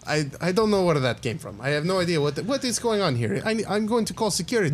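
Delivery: high, flustered lab scientist; a high, cagey scientist who knows about bats; nervous scientist voice. Acted. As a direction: scientist dodging questions about his bat research.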